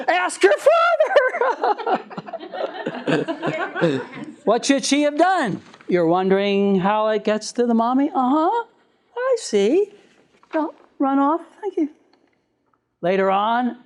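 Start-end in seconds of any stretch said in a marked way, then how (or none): 0.1-4.4 laughing. Real, not acted. Laughing punchline. 4.4-11.9 mock patient mother. Acting the mother's reply.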